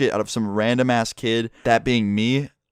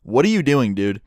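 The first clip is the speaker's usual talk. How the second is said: retold yell; 4 dB louder than usual. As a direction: call out as if through a window. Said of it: "I yell through my window".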